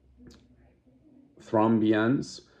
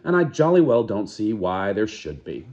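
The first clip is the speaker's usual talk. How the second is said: defiant; 2 semitones higher, 5 dB louder than usual. Acted. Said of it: "she answered almost truculently".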